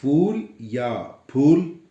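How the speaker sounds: slow contrast: फूल first with aspirated ph, then फूल with English f; two pronunciations of phool. Shown as a demonstration. Teacher asking viewers to pick a pronunciation, slow contrast. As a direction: set फूल with ph against फूल with f, slowly. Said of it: "इस शब्द का उच्चारण आप क्या करेंगे".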